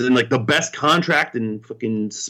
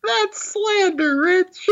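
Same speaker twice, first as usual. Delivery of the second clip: laughing; slower than usual. Real, not acted. Mock offense, laughing.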